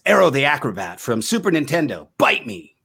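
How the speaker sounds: punchy nineties ad announcer; game commercial voice. Shown as a demonstration. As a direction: sell it like a retro game ad with attitude. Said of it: "It sounds like this".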